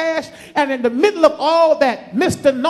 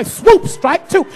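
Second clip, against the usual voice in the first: slow strike call; 3 semitones higher, 3 dB louder, slower than usual. Acted.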